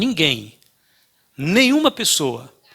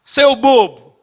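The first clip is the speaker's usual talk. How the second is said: put-on much higher and louder childish yell; boy screaming insults at the echo; angry shout; 7 semitones higher, 9 dB louder, slower than usual. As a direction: yell it at the cliff in a fury.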